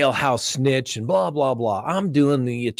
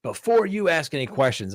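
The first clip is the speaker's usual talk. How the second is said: upset judge; 4 semitones higher than usual. Retold or imitated. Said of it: "He was so upset with me".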